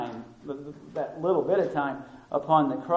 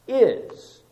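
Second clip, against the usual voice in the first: ordinary talk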